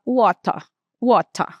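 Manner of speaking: "water" with a crisp T and a dropped final R; American way. Shown as a demonstration. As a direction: say "water" as "wato", clear T, no R ending. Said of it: "Esse R quase não é pronunciado".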